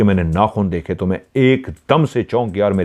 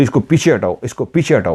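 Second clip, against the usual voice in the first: mock furious, angry, said twice; 3 semitones higher than usual. Retelling what a possessed woman said when offered water: imitating an angry command. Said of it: "जैसे वो गुस्से में आ गई हो".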